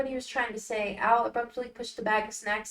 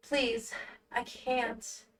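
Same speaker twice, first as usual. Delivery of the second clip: soft pleading; 6 dB quieter, much slower than usual. Acted. Al pleading softly.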